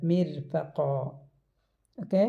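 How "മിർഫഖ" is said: മിർഫഖ with a long final ഖാ and a full stop; മിർഫഖ ending on a drawn-out ഖാ; stop on mirfakha. Shown as a demonstration. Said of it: "ഒരു മദ്ദും വെച്ചിട്ട് full stop ഇടുക". (മിർഫഖ: അവസാനം ഖാ നീട്ടി നിർത്തി)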